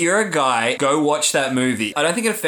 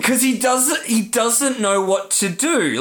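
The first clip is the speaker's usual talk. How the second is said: high, choked-up explanation; raised pitch, close to crying; tearful; 8 semitones higher than usual. Real, not acted. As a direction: explain it while fighting real tears. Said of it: "still makes me fucking cry".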